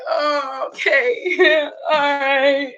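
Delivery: put-on a three-year-old's cheerful yell; little Justin. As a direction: play a toddler popping out of bed, laughing. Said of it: "baby Justin be like".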